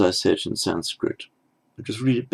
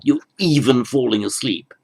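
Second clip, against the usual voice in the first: a touch of appalled disbelief; lightly voiced dismay at the sleepers; mild horror; 4 semitones higher than usual. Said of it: "He's, he's speaking to them in horror".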